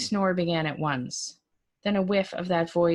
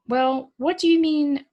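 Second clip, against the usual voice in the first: much higher and louder bewildered nephew; baffled nephew; 9 semitones higher, 7 dB louder than usual. Acted. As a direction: push it up in confused disbelief. Mike baffled on phone.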